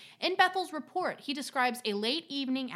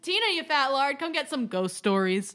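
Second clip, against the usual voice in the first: mock movie call; 5 dB louder than usual. Riffing the movie call as promo.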